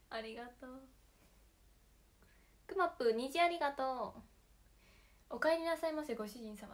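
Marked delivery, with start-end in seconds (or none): 5.3-6.7 bright high maid greeting, bowing in; sugary maid cafe greeting. Pretend. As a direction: welcome the master like a maid cafe. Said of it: "って言ってほしい".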